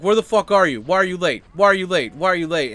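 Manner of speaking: imitated angry rant, loud and high; freaking out. Friend firing off thirty messages, freaking out. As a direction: hammer out each question like a fed-up friend. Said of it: "his friend is freaking out".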